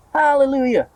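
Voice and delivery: high, loud hallelujah; joyful shout. A narrator's reading. Aunt dances round the tree shouting for joy. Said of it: "Aunt Spiker shouted".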